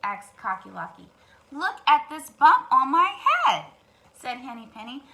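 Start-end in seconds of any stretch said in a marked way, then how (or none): 1.5-3.6 loud, high hen voice; insistent hen. Acted. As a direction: push the proof at him. Henny Penny shows her bump.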